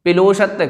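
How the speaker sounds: पिलोषत्य with an extra i splitting p and l; common mispronunciation. Shown as a demonstration. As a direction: demonstrate the error पिलोषत्य as pi-lo-shatya. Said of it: "कई लोग बोल देते हैं पिलोषत्य".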